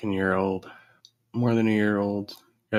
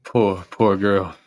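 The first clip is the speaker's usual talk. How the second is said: mock pity; 6 dB louder, slower than usual. Host mocks the woman in clip.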